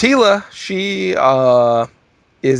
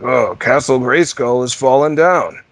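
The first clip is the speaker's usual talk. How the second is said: lightly voiced hero, slow and loud; He-Man; 5 dB louder, slower than usual. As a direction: announce it with mild mock-heroic concern. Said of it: "My favorite thing about He-Man".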